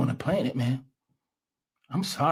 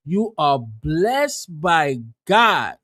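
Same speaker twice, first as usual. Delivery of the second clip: very slow, louder sarcastic repeat of "You are blessed by God"; mocking echo; 2 semitones lower, 4 dB louder, much slower than usual. Echoing the clip's speaker, slow mocking repeat. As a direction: drag the words out to ridicule them. Mocks the clip's words back.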